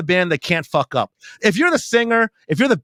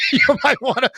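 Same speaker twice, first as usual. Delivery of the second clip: mock advice broken by laughter; laughing; 6 semitones higher than usual. Comic imitates the reverend warning him, breaking up laughing. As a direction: crack up partway through the imitation.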